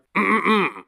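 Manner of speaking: theatrical throat clear. Real, not acted. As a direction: clear the throat before a show. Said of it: "put on my best Dutch accent".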